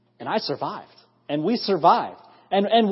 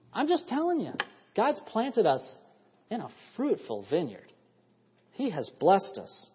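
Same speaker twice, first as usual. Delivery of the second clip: soft, slow, sinking preacher's hush; hushed preaching; 6 dB quieter than usual. Acted. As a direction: pull them in quietly and slowly. Preacher drops to hushed close.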